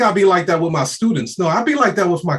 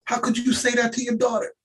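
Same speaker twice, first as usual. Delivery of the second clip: high, hammed-up outraged parent; hammed-up scandalised parent voice; mock shocked parent; 7 semitones higher than usual. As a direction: play a clutching-pearls parent, much higher. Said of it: "some parents will probably be like".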